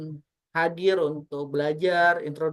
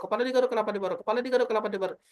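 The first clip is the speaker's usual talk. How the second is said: slow tongue twister. Shown as a demonstration. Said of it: "Sampai di level terakhir".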